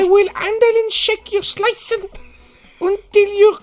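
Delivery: high, slow mock-German woman's voice; German accent. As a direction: drag out English in a high-pitched German accent. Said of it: "avec l'accent allemand".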